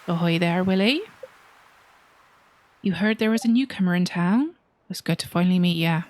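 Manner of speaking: put-on salty fisherman accent; Willy's accent. Player greets Willy on first meeting, salty seafarer accent. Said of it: "that's Willy's accent".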